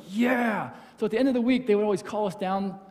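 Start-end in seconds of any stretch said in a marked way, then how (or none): 0.1-0.7 mock cheer. Mimicking hyped camp crowd.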